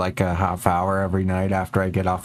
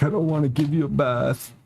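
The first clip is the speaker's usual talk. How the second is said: quoting herself to cat; 5 semitones higher than usual. Retold or imitated. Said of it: "I'm like".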